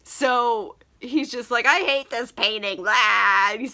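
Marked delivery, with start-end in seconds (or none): 1.7-3.5 hammed-up loathing ending in a loud blah; mock tantrum. Dorian railing at his painting, mock disgusted. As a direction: finish on a loud, silly blah.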